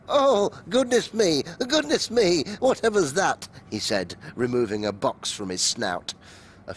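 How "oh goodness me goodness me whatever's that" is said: startled. A narrator's reading. Startled Mole exclaims.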